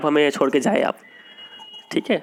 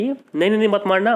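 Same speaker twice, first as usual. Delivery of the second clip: high, anxious "no, no, don't hit"; mock frightened plea; excited pleading; 5 semitones higher than usual. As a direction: beg him not to strike, pitch jumping up. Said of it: "काफ़ी excitement में थी".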